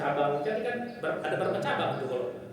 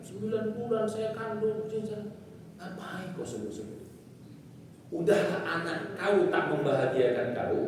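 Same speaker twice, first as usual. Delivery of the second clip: angry mother quoted; 3 semitones higher, 4 dB quieter than usual. Retold or imitated. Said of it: "Dia keluar kata-kata gitu".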